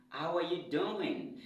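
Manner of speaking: "doing" with its last G barely there; light final G. Shown as a demonstration. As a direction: let "doing" end almost as "doin'". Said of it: "On les prononce qu'à trente pour cent".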